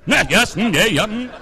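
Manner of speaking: high, swooping British-style murmurs; hammed-up British agreeing noises; mock British. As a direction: do a comic British yes-man. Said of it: "Must have been British".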